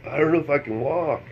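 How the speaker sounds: a hint of tipsy helplessness; drunk. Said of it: "I'm too drunk".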